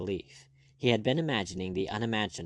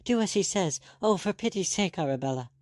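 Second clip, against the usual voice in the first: frightened pleading; 10 semitones higher, 3 dB louder than usual. Acted.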